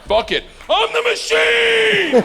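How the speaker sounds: reckless build to a high, drawn-out yell; all-out shout. Retold or imitated. Student announcing himself to a room of gangsters, all-out shout. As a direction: throw caution away and bellow it long and high.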